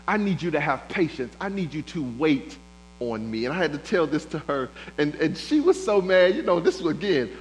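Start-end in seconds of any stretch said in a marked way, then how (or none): 0.0-3.5 voice of God. Acted. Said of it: "God says".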